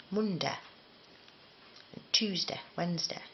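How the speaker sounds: days of the week in a Bulwell local accent. Shown as a demonstration. Showing how Bulwell people say the days, Bulwell accent. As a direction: say MONDAY, TUESDAY, WEDNESDAY with Bulwell's short day endings. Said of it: "in Bulwell, they don't say Monday".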